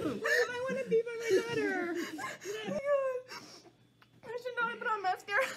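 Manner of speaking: crying. Real, not acted. Crying over acceptance news.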